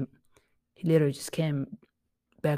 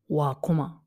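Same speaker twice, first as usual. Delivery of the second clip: whispered question. Shown as a demonstration. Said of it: "you're like".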